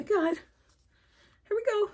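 high, slow, breathy awe; awed. Real, not acted. Placing the candle for viewers, high slow awe. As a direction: draw it out in hushed wonder.

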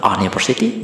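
"university" begun with an open vowel, "ah-niversity"; wrong pronunciation. Shown as a demonstration. Teacher listing wrong readings, "university" as "ah-niversity". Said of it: "bukan university".

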